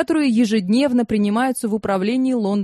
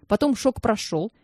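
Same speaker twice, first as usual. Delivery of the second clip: ordinary delivery, nothing marked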